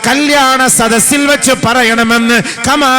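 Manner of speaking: high, loud, slow chanting preacher's voice; sermon delivered at full force, stretched slow; full-force preaching. Acted. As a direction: preach it out, drawn long and loud to the hall.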